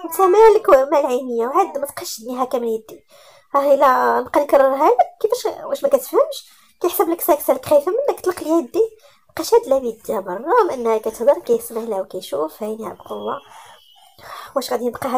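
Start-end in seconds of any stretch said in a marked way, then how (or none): 0.1-8.9 higher, louder, indignant snapping; angry protest. Acted. Heroine angrily tells Malik to let go of her hand. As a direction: she bristles and demands her hand back.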